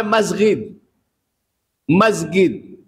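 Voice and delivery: "মসজিদ" said as masgid with a hard g; Egyptian pronunciation. Shown as a demonstration. Preacher showing listeners how Egyptians say the word. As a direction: Egyptian way: jim read as gain in "মসজিদ". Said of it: "মিশররা জিমকে গাইন পড়ে".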